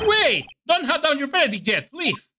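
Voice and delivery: urgent interruption. Acted. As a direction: cut in before the verdict. Lawyer interrupts the verdict.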